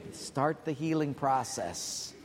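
"Start the healing process" spoken slowly and weighed; slow, deliberate. Shown as a demonstration. Preacher stressing healing to the church, slowly. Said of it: "repeated phrase".

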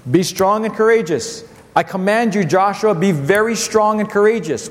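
preaching. Acted. Pastor proclaiming God's words to Joshua, ringing.

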